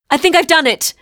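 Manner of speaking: high, loud triumphant cry; excited cry. A narrator's reading. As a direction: shout it out, thrilled it worked. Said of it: "cried Anya".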